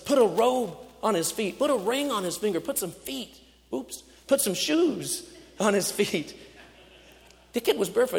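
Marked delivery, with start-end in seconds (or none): 0.1-6.3 high, loud, delighted commands to the servants; joyful orders. Acted. Father calling to his servants to dress his son, loud and overjoyed.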